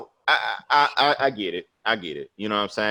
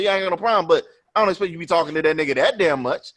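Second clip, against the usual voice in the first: higher-pitched complaint, speeding up; retold anger; 6 semitones higher, much faster than usual. Man complaining to his date about his friend, mad. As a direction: rattle off the grievance as in a retold argument. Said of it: "I was so mad after the movie".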